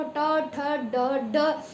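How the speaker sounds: ट, ठ, ड sounded separately with the tongue curled back; sound demo. Shown as a demonstration. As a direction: say ट ठ ड crisply. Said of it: "ड बोल के देखो".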